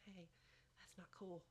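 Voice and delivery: very soft, hushed aside; whispered nudge. Acted. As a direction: whisper it like a private prompting in the ear. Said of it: "gonna whisper in your ear".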